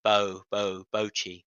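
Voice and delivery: "bochi" with a long gliding oh, BOH-chee; low-pitched demo of "bo, bo, bochi" as BOH; imitated American pronunciation. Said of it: "your American pronunciation".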